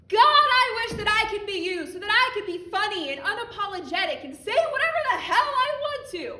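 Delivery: impassioned outcry. Acted. Envying the man she addresses, crying out loud. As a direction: let it burst out. Outburst of envy.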